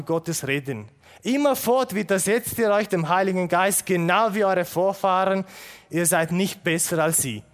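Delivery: loud, accusing preacher's reproach; stern rebuke. Acted. Stephanus reproaching the council, loud and accusing. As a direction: hammer the rebuke home.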